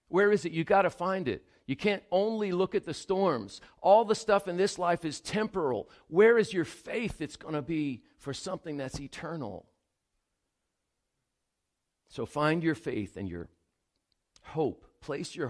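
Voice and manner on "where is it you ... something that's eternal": fervent pastor's exhortation; rising preacher's exhortation. Acted. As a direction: preach it out, pressing them to find their faith.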